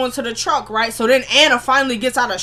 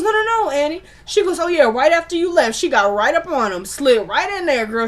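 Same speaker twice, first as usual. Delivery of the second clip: high, teasing gossip voice; mocking sister; 5 semitones higher than usual. Sister taunting Annie about Brody, high and mocking. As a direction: sing it out to needle her sister.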